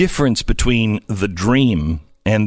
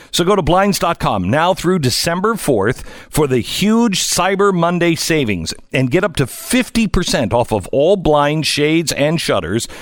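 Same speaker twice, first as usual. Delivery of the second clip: holiday sale ad. Acted. Host reads sponsor ad.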